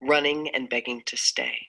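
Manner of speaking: measured, earnest poem recital; spoken-word reading of a personal poem. Acted.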